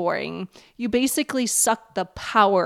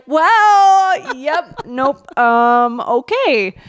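flustered surprise; 4 semitones higher, 5 dB louder, much slower than usual. Retold or imitated. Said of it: "And I was like".

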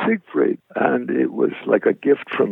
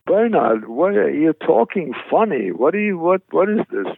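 higher, swooping mother's voice; puzzled mother; 7 semitones higher than usual. Retold or imitated. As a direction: imitate a baffled, fussing mom. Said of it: "even my mother said".

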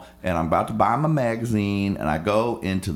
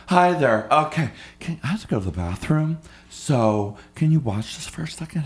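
higher, sugary request; chirpy woman; 5 semitones higher than usual. Retold or imitated. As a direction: ask the favor in a cloying voice. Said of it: "She's like".

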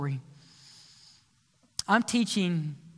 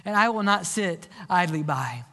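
fervent preaching. Acted. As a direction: preach it to the church at full force. Preaching the altar call.

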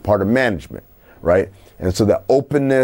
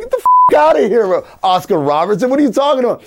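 much higher, louder incredulous outburst; outraged disbelief; 13 semitones higher, 4 dB louder, faster than usual. Retold or imitated. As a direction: explode in disbelief. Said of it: "I'm like".

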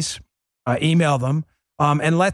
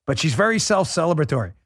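ordinary talk

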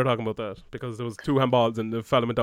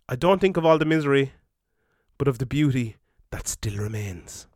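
inspirational quote; slower than usual. Acted. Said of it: "is the inspirational quote of the week".

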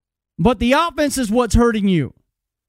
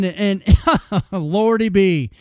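laughing; 3 semitones lower, much slower than usual. Real, not acted. Laughing at the offensive line.

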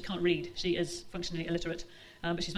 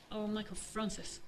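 soft, slow mother's whisper; 7 dB quieter, slower than usual. Acted. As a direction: breathe the name slowly and quietly. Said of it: "she'd whispered".

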